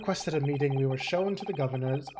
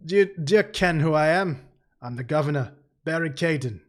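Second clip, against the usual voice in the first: put-on Scottish accent; 3 dB louder than usual. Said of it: "what voice is this?".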